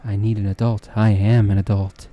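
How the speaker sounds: flirt smoothly, holding back laughter; Smooth Talker voice. Shown as a demonstration. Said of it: "I'll be using this voice".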